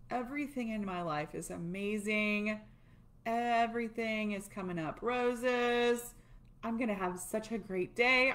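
mildly played-up happiness, words stretched; happy affirmation. Shown as a demonstration. Coach demonstrating how to end tapping on a good note, happy affirmation. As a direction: lay on the positivity, lightly sing-song. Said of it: "end it with something happy".

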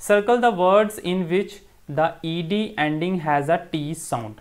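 slow, deliberate reading of the task; teacher carefully reading the textbook instructions aloud to students. Acted. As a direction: read the instructions out slowly for the class. Teacher reads the exercise instructions.

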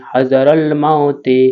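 slow recitation. Shown as a demonstration. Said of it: "recites the word slowly".

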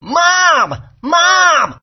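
calling out. Acted. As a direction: shout across to find her. Child calling out to mother.

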